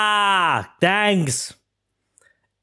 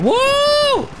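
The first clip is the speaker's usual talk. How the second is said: victory whoop. Real, not acted. Gamer cheering after passing a level, victory whoop. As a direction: let out a whoop of triumph.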